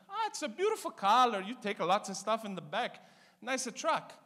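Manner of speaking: put-on high, Italian-accented mom praising; Italian mother. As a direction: sweet-talk it like a mother before the dig. Mother voiced in story.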